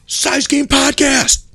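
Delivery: high, drawn-out mock yell; real loud yell. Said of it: "Like, real loud".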